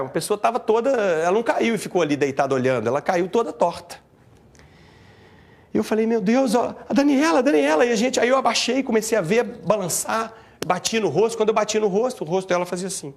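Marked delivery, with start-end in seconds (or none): 6.1-7.8 raised, louder reenacted panic; retold alarm. Man reliving seeing Daniela lying twisted, rising alarmed cry. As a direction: call her name in mounting alarm.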